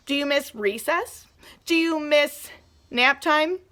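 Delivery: ordinary talk, nothing marked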